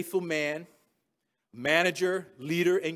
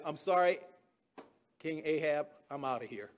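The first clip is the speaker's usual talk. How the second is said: softer, fading to a murmur; quiet exit; 6 semitones lower, 8 dB quieter than usual. Pretend. Jehoshaphat excusing himself from King Ahab, quietly. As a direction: slip out with a low apology.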